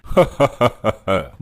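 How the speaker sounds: scornful villain's laugh; mocking laugh. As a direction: laugh at the fools' failed attempt. Yama scoffs at the gunmen. (उपहास भरी हँसी)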